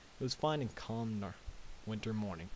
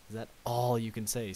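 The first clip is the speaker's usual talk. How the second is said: indignant; 5 dB louder than usual. Acted. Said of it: "Spike asked indignantly".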